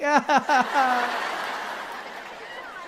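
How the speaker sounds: long, high fading wail; grandmother's mock wail. Grandmother devastated by his camping, mock wailing. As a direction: trail off in exaggerated granny sobbing. Grandmother wails after her line.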